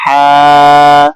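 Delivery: ہا like a cool breath out; breathy ha. Shown as a demonstration. Teacher shows students the breathy ہا. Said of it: "جیسے ٹھنڈی سانس لیتے ہیں".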